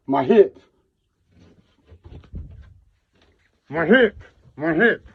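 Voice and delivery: real desperation. Real, not acted. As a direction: repeat it desperately, overwhelmed by pain. In pain, desperate repeated outburst.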